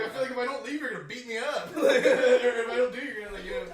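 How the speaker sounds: nervous laughing plea; high nervous plea. Retold or imitated.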